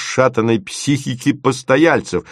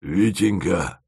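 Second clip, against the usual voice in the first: a slow, smoky bass call; 2 semitones lower, 3 dB quieter, slower than usual. Acted. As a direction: call out in a husky smoker's bass. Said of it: "позвала она прокуренным басом".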